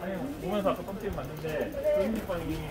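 muffled behind cloth mask; speaking while masked walking; through a face mask. Real, not acted. Seen 2: Both walkers wear face masks throughout; faces mostly turned away.

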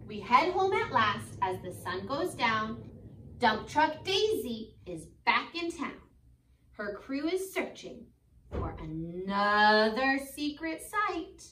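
slow, lilting storybook read; gentle read-aloud for kids; reading to children. Acted. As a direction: read it like a bedtime picture book. Teacher reads picture book aloud.

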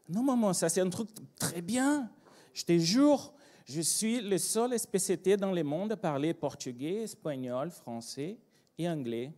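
mildly pleading son; insistent reassurance. Acted. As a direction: swear it's good news, hammed up a little. Acted son reassuring his alarmed mother.

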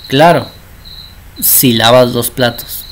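a hint of a mother setting terms, slowing after the yes; conditional mother's reply. Mother answers child asking for football, lightly acted conditional consent.

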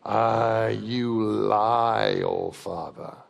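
lightly growled wolf voice, slow on the last line; a wolf rumbling an accusation; growling wolf. A narrator's reading. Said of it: "A long growl from the wolf".

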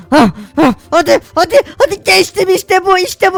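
excited cheering. Real, not acted. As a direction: cheer the win. Cheering after clearing jump.

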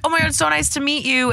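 high starstruck gush; gushing fangirl. Retold or imitated. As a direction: squeal like a fan meeting a star. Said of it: "Or like".

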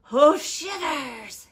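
loud, slow, drawn-out cry of alarm; alarmed hiss. A narrator's reading. Snake sees the Gruffalo, alarmed hissing voice. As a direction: recoil in a frightened snake voice. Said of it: "hissed Snake".

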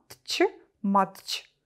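whispered "тч", then whispered "матч"; breathed-out "тч, матч" with no voice; consonant cluster whispered. Shown as a demonstration. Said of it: "Скупчення приголосних, які незручно вимовляти".

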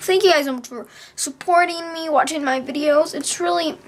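high-pitched, heartfelt gratitude; holding back tears. Real, not acted. Vlogger thanks supporters, trying not to cry. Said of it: "I don't wanna cry".

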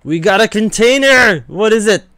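high, loud burst of joy; excited. Real, not acted. Gamer thrilled to get a loot container, high excited shout. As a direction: shout it like you just won a prize. Reward container after the match.

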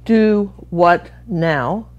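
"Do what now?" very slow and drawn out, Texan style; Texan drawl. Shown as a demonstration. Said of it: "All one word".

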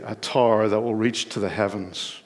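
normal talking voice

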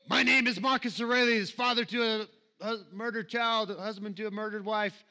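a hint of a grim warrior vow, southern-voiced; Gladiator impression. Preacher quoting Gladiator, lightly dramatic southern-accented impression. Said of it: "my southern imitations of other accents".

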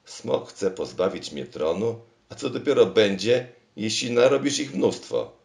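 building into a high, loud shout; rising panic at the thought; alarmed shout. Acted. King fears losing his throne, shouting high and loud.

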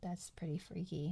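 hushed, breathy whisper; spooked whisper. Real, not acted. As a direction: breathe it out in awe. Whispered reaction to ghost talk.

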